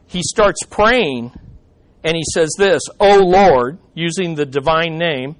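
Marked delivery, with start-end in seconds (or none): 3.0-3.8 a raised, earnest cry to God; calling out in prayer. Retold or imitated. Elijah calling on the Lord, raised prayer cry. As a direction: call on the name, lifting the voice.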